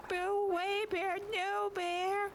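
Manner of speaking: high shrill mock yell at a bear; scaring off a bear. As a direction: imitate a lady shooing a bear. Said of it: "she's fucking yelling at the dumbass bear".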